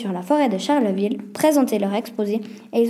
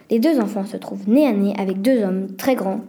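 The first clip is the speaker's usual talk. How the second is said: ordinary delivery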